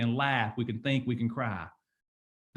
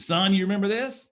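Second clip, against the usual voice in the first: dad asking; 6 semitones higher, 5 dB louder than usual. Retold or imitated. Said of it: "He said".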